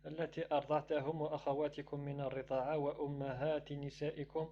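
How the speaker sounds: fast rapid reading of the Arabic verse; rushed scripture reading; Quran recitation. Acted. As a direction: rattle through the recitation quickly.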